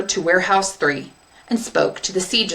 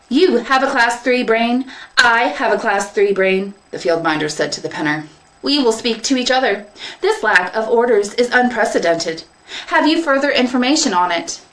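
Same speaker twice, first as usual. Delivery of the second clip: field minder robot; 5 semitones higher than usual. Acted. Field minder addressing the penner, logical. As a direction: speak as one robot to an equal.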